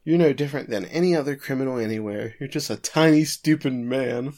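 mock put-down, slowing on the last words; belittling. Lawyer belittles the prosecutor as a criminal, acted put-down. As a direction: imitate someone cutting a man down to size. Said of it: "belittling men".

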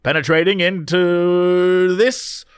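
put-on grand old newsreel announcer reading; old-timey announcer. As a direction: read it like a vintage radio announcer. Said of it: "Give me your old-timey announcer voice".

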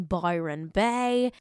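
Bay said with a broad mock Australian vowel; playful Australian twang on Bay; mock Australian accent. Shown as a demonstration. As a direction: slip into the Aussie accent for Bay. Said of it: "sorry for my Australian accent".

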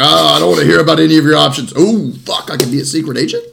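eager customer. Acted. Easy sell waving off the options, eager customer. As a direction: blurt it out like an easily sold buyer. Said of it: "He's like".

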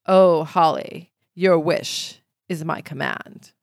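slow, low, grand butler voice; genie butler voice. Retold or imitated. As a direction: intone it like a stuffy butler. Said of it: "Do they say it like that?".

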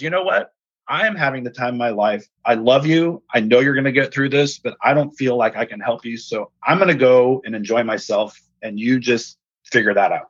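lightly imitating a fed-up wife; mild exasperation in a quoted voice; frustrated wife. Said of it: "she was so frustrated with me".

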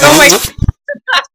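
high, breathy little gasp of shock; taken aback. Retold or imitated. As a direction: act scandalized and charmed. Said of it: "I was just like".

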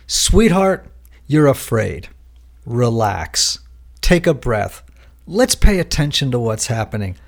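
gentle self-talk. Retold or imitated. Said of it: "she says to herself".

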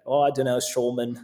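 a playful hint of a Scottish accent; loosely mimicked Scottish accent. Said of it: "That was a great Scottish accent".

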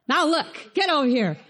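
laughing mock parent command; a hint of a dad calling the kids; stern parent. Pastor imitates calling his kids over, laughing mock sternness. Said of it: "I said it to my kids once in a while".

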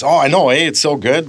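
bright Canadian agreement tacked onto "know"; affirmative Canadian "eh". Shown as a demonstration. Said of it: "we always ask it as, like, an affirmative".

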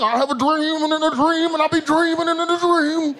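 lightly voiced MLK dream speech; Martin Luther King. Comedian mimicking a British actor playing King, mock oratory. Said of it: "this motherfucker be Martin Luther King".

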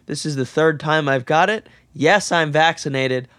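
stuffy nasal voice from a cold; speaking through a blocked nose. Real, not acted. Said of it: "my voice sounds kinda nasally".

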